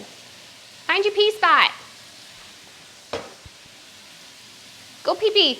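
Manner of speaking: high, slow coaxing voice; high puppy talk. Real, not acted. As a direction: coax the puppy sweetly and slowly.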